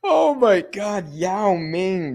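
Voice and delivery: high, drawn-out cry through real laughter; laughing so hard the words stretch high; helpless laughter. Real, not acted. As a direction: gasp it out while cracking up. Recovering from a laughing fit.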